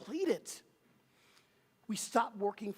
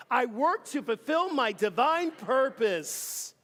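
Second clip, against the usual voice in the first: louder, slower, full conviction; like you mean it; 3 semitones higher, 6 dB louder, slower than usual. Shown as a demonstration. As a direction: proclaim it with conviction, slow and loud. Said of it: "can you say it like you mean it".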